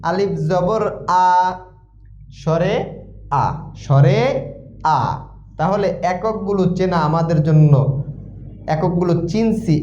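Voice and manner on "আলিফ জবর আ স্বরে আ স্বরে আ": tuneful recitation. Shown as a demonstration. Teacher sounding out letters for learners, tuneful recitation. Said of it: "একটু সুরে বলি".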